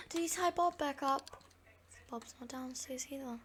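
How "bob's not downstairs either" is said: whisper. Real, not acted. Whispered worry.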